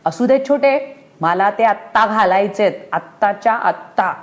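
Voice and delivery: stamp your foot with the words; child's shout. Acted. Anu yells to her mother to wear them now. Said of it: "अनु पुन्हा ओरडली".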